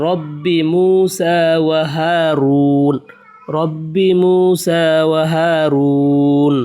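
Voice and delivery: slow, drawn-out recitation of the whole phrase; teacher reciting the finished words slowly; slow full reading. Shown as a demonstration. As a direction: read it out slowly and joined up. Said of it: "slow joined reading after spelling".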